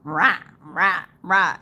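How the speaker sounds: rapid-fire "rah" noises; punchy imitation of arguing; mock debate attack. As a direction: mimic someone going on the attack. Mimics someone tearing into debaters.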